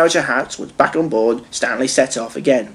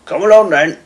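higher, brisk calling voice; Fat Controller; 6 semitones higher, 4 dB louder than usual. A narrator's reading. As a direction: usher the family along. Fat Controller calls family along.

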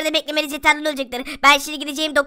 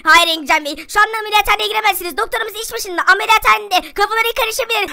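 high, raised put-on voice; firm hospital staff; 4 semitones higher than usual. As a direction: refuse entry in a high character voice. Hospital staff bars the father. (tiz sesle itiraz eden hastane görevlisi)

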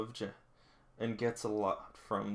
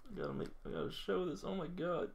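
amused giggle; 7 semitones higher, 7 dB quieter than usual. Real, not acted. Still amused by the picture.

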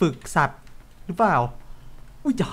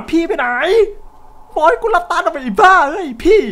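high, loud calls for the sister; frantic calling; 12 semitones higher, 9 dB louder than usual. Real, not acted. Player searching for his sister, frantic loud calls. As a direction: call out for her in panic.

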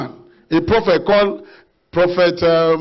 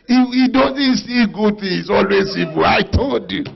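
retold angry complaint; 4 semitones higher, 3 dB louder than usual. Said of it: "King Ahab was very angry".

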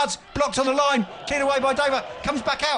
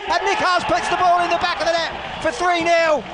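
long goal yell; 4 semitones higher than usual. Real, not acted. Commentator calls a goal.

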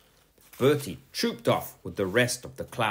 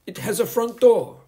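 high, firm schoolteacher voice; a strict teacher scolding a pupil; stern teacher; 13 semitones higher, 9 dB louder than usual. A narrator's reading. Teacher warning Bertie to sit down, stern and high. Miss Boot's voice.

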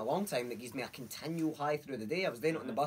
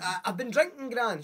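mock guilty excuse; 10 semitones higher, 7 dB louder than usual. Retold excuse to gran.

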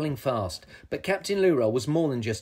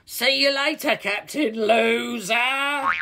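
high, drawn-out jeer; taunting troll; 10 semitones higher, 4 dB louder, slower than usual. A narrator's reading. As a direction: sing out the insult while escaping. Troll taunts while escaping.

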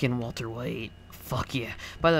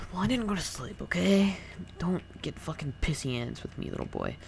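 sassy; 7 semitones higher than usual. Acted. Defensive put-on voice.

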